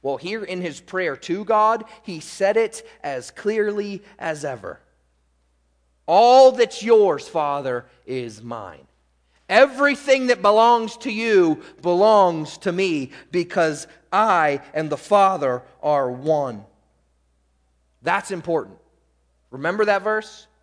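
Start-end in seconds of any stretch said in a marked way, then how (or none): 6.1-16.7 emphatic preached quote. Acted. Preacher voices Jesus' claim to the Father, emphatic preaching. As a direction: proclaim it as Jesus addressing the Father.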